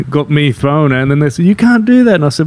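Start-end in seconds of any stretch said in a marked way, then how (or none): 1.4-2.1 mock scolding. Onlookers scolding him, retold.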